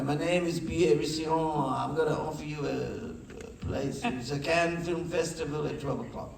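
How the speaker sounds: halting mock French accent, slowing midway; bad French accent. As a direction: imitate a Frenchman on the phone, badly. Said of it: "I see a bad French accent".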